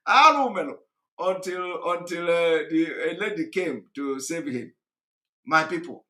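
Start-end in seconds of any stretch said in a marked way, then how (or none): 0.1-0.8 imitated shout. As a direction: wail it out like he's being beaten. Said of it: "He was just shouting".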